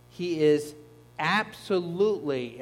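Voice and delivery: slow and weighty, underlining "absolutely"; emphatic pronoun. Shown as a demonstration. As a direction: stress on "he is", then a slow, drawn-out "absolutely". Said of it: "in Greek the pronoun is emphatic".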